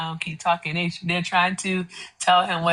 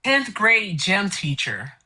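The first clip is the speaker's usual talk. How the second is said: slow mocking drawl; 3 semitones lower, much slower than usual. Real, not acted. Roasting Trump's body, drawn out.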